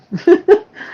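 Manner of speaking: brief high laugh. Real, not acted. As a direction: let out a short, high chuckle. Laughs after admitting upset.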